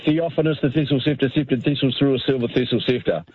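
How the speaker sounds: rattled-off tongue twister; fast tongue twister. Shown as a demonstration. Caller showing off his tongue-twister skill, fast tongue twister. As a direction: race nimbly through the tricky sounds. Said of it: "doing a tongue twister really fast".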